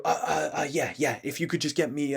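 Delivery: timid, uncertain customer; hesitant ordering. Shown as a demonstration. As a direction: falter and fumble as if shy to order. Demo of weak, hesitant ordering.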